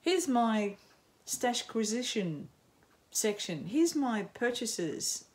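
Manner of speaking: slow, showy haul-video host; mock podcaster voice. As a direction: parody a podcaster showing off purchases, slowly. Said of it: "one of those podcasters that".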